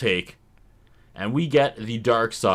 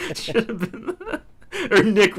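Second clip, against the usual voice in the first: laughing; 8 semitones higher than usual. Real, not acted. Laughing mid-sentence.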